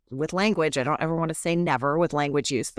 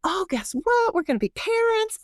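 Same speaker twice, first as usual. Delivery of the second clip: excited announcement; 13 semitones higher than usual. Retold or imitated. Young couple announcing news.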